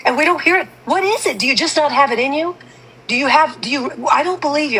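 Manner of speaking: frustrated, calling her out; exasperated. Real, not acted. Confronting Jude, rising pitch.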